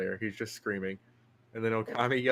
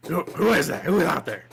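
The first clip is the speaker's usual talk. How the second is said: calling out; 5 semitones higher, 8 dB louder than usual. Acted. GM voicing NPC calling out.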